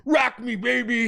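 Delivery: high-pitched mock gym-rat cry. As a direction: squeal it like a teasing gym rat. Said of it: "a gym rat and you're just".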